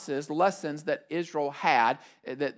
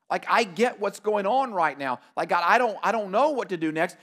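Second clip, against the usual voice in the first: pleading Moses. Retold or imitated. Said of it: "you hear all of that in his voice".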